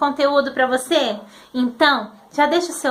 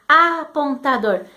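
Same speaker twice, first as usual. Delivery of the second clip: slow word demo; slower than usual. Shown as a demonstration. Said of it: "que letra que você vai precisar pra fazer A".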